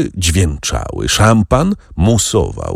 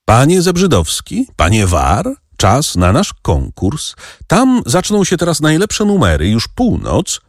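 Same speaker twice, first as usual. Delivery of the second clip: higher-pitched, lightly urgent summons; narrator's animated hail, not shouted; calling out; 9 semitones higher than usual. A narrator's reading. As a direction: call the gentlemen to hurry along. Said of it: "zawołał baron".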